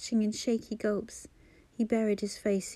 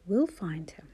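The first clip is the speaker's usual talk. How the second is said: 1 soothing whisper; 3 semitones lower than usual. Acted. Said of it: "she soothed".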